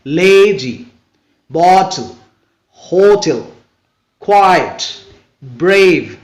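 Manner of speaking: weight on the first syllable of लेजी, बॉटल, होटल; teacher's word list, होटल and बॉटल stressed up front. Shown as a demonstration. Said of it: "the stress usually falls on the first syllable".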